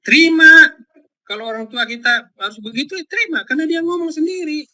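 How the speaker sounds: high, loud cry of accept; emphatic urging. Real, not acted. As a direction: press the word on the listeners. Preacher urges acceptance. (seruan tinggi: terima)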